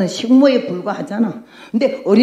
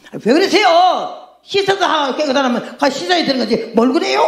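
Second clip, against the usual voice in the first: servants coaxing; 6 semitones higher than usual. Retold or imitated. Servants pleading with Naaman.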